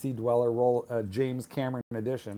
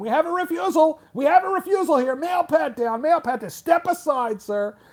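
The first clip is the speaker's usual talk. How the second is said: very high, unhinged, shrill, loud alarmed yelling; 8 dB louder than usual. Retelling how an airport screener reacted to a refused X-ray: imitating a screener yelling. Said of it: "She starts yelling".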